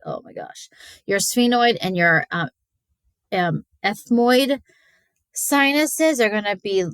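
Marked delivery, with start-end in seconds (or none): 0.1-0.7 mock dismay. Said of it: "you're like".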